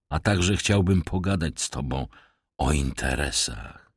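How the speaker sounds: a sly beggar bowing with false politeness; rough vagrant voice. Acted. Stranger explains himself.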